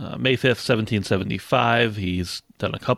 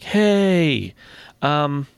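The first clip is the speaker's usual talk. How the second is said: hammed-up outrage, higher; playful mock threat, raised voice; mock angry colonists; 6 semitones higher, slower than usual. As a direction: pitch it up like a riled mob.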